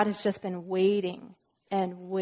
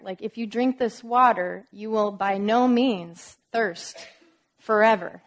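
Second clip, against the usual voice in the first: louder, slow, "by no means" and "forever" punched; emphatic, building; 6 dB louder than usual. Shown as a demonstration. Preacher pressing the promise on listeners, loud and slow. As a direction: drive it home, louder to the end. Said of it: "do you see the emphasis there".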